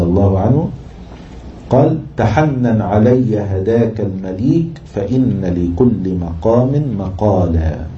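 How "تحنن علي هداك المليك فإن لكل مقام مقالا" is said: slow, measured poetry reading; verse recitation. Shown as a demonstration. Teacher quoting a poem to his class, slow recitation. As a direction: recite the line with drawn-out long vowels.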